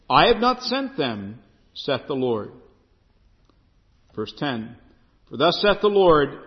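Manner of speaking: measured, solemn reading of the verses; scripture reading. Acted. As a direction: read the Lord's words with weight. Reads scripture aloud.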